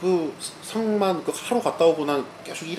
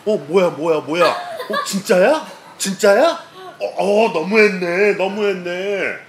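imitated shocked viewers; 4 semitones higher, 4 dB louder, slower than usual. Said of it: "애들도 갑자기 내가 화내고 귓속말로 이렇게 왔다니까".

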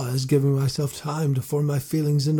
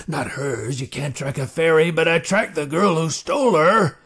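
put-on gruff old marshal; 5 dB louder than usual. A narrator's reading. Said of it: "the marshal growled".

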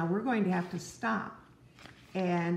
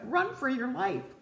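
mild mock shout; 6 semitones higher than usual. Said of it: "shouted a rabbit".

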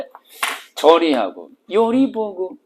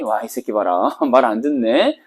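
sneering laugh; 6 semitones lower than usual. Retold or imitated. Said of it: "이렇게 웃는 거지".

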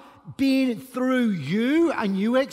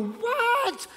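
surprised what; 11 semitones higher than usual. Retold or imitated. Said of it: "And you go".

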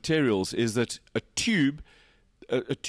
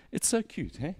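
gushing cute; 6 semitones higher, 5 dB quieter than usual. Real, not acted. Gushing over the gear lever.

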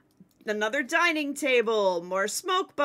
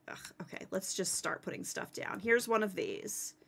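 hushed, voiceless mutter; whispering; 4 semitones lower, 11 dB quieter than usual. Real, not acted. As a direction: whisper it under your breath. Muttering to herself.

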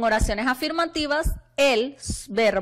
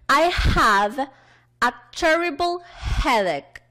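slow, loud classroom example; deliberate teacher's demonstration; model sentence; 4 semitones higher, 4 dB louder, slower than usual. Shown as a demonstration. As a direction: read it out slowly and higher for learners to follow.

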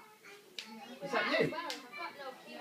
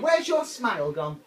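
delighted coaxing; 6 semitones higher, 14 dB louder, slower than usual. Real, not acted. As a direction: draw out a smile from the little one. Coaxing a smile from baby.

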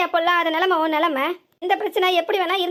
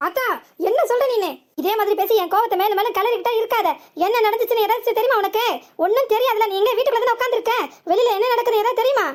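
put-on raised, heated voice at the old woman; angry outburst; 3 semitones higher than usual. Son scolds the old woman, angry and raised. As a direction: snap back at her, pitch up and pressing.

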